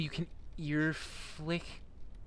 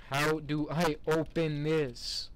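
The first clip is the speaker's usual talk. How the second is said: slow, spaced-out words in the usual pitch; slow exasperation; 3 dB louder, slower than usual. Real, not acted. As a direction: ask it slowly, weighing each word. Stuck, asks slowly, then squeals it.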